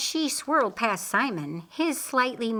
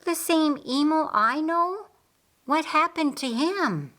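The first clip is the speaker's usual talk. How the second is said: surprised question; 9 semitones higher, 3 dB louder than usual. Acted. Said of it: "questioned Mary".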